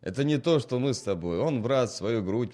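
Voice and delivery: put-on loud, maudlin drunken praise; drunk peasant. Drunk man to his friend Seryoga, loud and maudlin. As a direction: slur it out fondly, loud.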